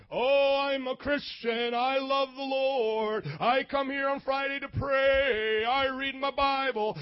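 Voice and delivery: mock pious act. Preacher mimicking a pretend Christian, slow and showy. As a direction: ham up a pretend Christian bragging loudly. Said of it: "It is somebody pretending".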